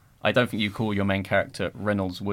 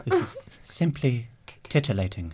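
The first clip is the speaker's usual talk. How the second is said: Reynolds Woodcock; 3 semitones higher than usual. Retold or imitated. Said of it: "That's a Reynolds Woodcock word".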